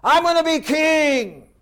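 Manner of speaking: high, slow, drawn-out boast; arrogant boast. Acted. Adonijah bragging he will be king, arrogant. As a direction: gloat about taking the throne. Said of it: "he exalted himself".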